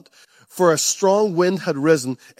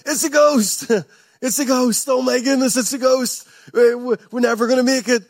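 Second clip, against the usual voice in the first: terrified cry; 5 semitones higher than usual. Acted. Preacher acts out terrified disciples.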